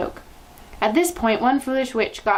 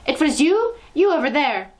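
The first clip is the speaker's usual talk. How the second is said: loud, high enraged shout; single her out in rage; furious accusation; 6 semitones higher, 6 dB louder than usual. A narrator's reading. Grand High Witch shouting at the foolish witch.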